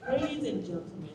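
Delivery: calm cabin announcement voice; flight attendant. Acted.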